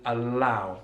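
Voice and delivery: "allow" with a light L at the front of the mouth; tongue forward on the L of "allow". Shown as a demonstration. Teacher contrasting with the dark L, light L. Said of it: "at the front of the mouth".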